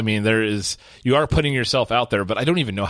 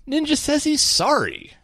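mock dramatic headline. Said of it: "mock dramatic headline".

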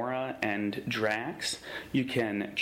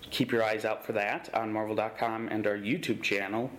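ordinary talk, nothing marked

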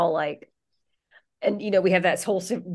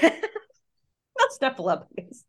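Snuffleupagus drawn out slow and high; slow correction; 5 semitones higher, much slower than usual. Real, not acted. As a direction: stretch it out slowly in mock protest. Correcting the puppet name.

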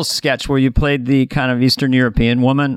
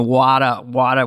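a hint of East Coast accent, lower; attempted East Coast accent; 4 semitones lower, slower than usual. Shown as a demonstration. Man unsure of his Philly, attempted East Coast accent. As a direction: try an East Coast "Wada". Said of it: "I would go all over East Coast".

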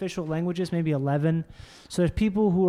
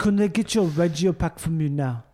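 put-on Afrikaans accent. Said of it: "asked the guy three times".

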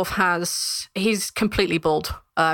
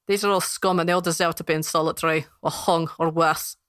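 lightly voiced scornful dwarf; dismissive guard. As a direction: spit out contempt as a guard.

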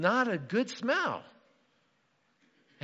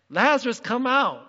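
Jesus; 5 semitones higher, 7 dB louder than usual. Retold or imitated. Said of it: "then he shouts".

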